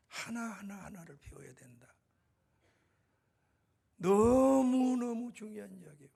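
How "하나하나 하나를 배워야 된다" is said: hushed intimate whisper; whispered like a secret counsel. Acted. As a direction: lean in and breathe the words. God's words to new believer.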